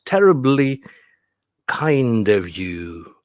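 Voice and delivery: "kind" stretched out slowly after "terribly"; stress demo. Shown as a demonstration. Teacher finding the next stress, drawn-out "kind". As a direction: separate the beats on "terribly" and "kind". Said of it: "What is the next stress?".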